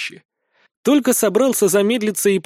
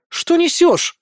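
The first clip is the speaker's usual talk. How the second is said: high, wailed protest; indignant wail; 11 semitones higher, 4 dB louder, slower than usual. A narrator's reading. Emira protesting the tigress's accusation, wailing. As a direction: wail it in outrage, pitched way up. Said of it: "воет Эмира".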